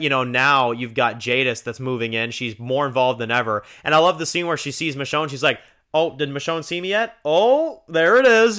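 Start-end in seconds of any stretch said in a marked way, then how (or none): 5.9-8.6 very high, loud smug sing-song; smug villain. Retold or imitated. Jadis spotting Michonne, very high smug gloating voice. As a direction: gloat as she spots her.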